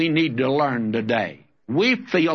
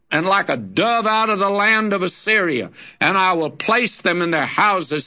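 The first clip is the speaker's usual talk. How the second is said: raised, ringing reading of prophecy; prophetic scripture reading. Acted. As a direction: proclaim it like a warning roar.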